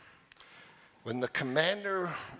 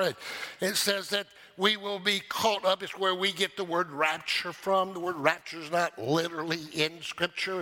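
high, driving pulpit delivery; impassioned preaching; 7 semitones higher, 3 dB louder than usual. Real, not acted. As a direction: preach it with full energy. Preaches with rising force.

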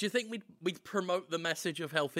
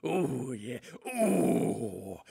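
low, slow sultry come-on; deep, drawn-out lustful purr; mock seductive; 7 semitones lower, slower than usual. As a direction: croon it slowly in a hammed-up low voice. Mock seduction of milk, lustful act.

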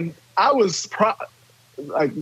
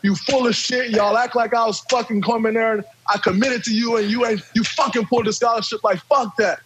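higher pitched angry comeback; retold yelling match; 4 semitones higher than usual. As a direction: fire back at the coach, mildly. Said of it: "we're having a screaming match".

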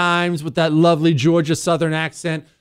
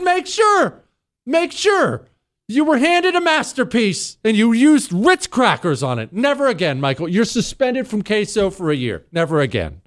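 hammed-up scolding, much higher pitched; mock outrage; 7 semitones higher than usual. Host scolding Michael for using Ritz crackers, in mock outrage. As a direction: play the offended queso chef, not truly angry.

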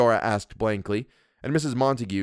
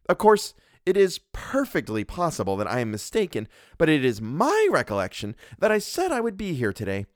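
higher, bossy wife's voice; a domineering wife scolding her husband; Mrs Montague; 6 semitones higher than usual. Acted. Mrs Montague lectures the doctor, haughty and bossy.

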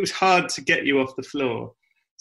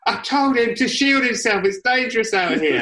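high-pitched mock protest; indignant self-defence; 10 semitones higher than usual. Attacker defends himself to angry friends, high-pitched indignant protest. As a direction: plead your case, voice pitched way up. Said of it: "Everyone was going mad at me".

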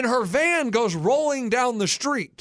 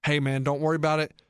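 reassuring; 6 semitones lower than usual. Acted. Older friend reassuring, hand on shoulder.

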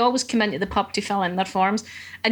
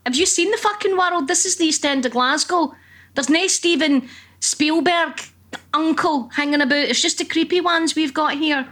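exasperated disbelief; 5 semitones higher than usual. Retold or imitated. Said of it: "And I'm like".

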